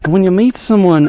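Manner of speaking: hammed-up Australian gentleman in love; Australian accent. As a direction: pick the Australian accent back up. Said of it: "Australian it is".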